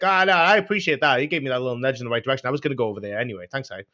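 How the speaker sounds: mock-grateful, quick run of sarcasm; imitated sarcastic politeness; passive-aggressive. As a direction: thank them while meaning the opposite, rattled off fast. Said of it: "making passive-aggressive comments to people".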